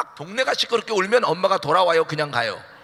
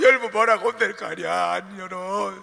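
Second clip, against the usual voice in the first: ordinary talk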